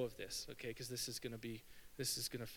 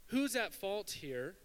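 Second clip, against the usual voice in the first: higher, drawn-out accusing question; mock yell; 5 semitones higher, 4 dB louder, slower than usual. Preacher voices blame God didn't shout, mock yell. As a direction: mildly imitate a yelled accusation. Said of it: "He doesn't yell".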